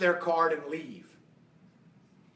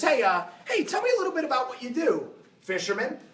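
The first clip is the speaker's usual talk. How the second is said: wealthy man; 5 semitones higher than usual. Retold or imitated. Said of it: "wealthy man comes up to him and says".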